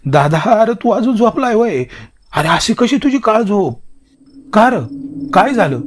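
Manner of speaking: loud, high, panicked rush. Acted. Hari panicking to his sleepy brother, loud and high. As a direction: sound alarmed and urgent.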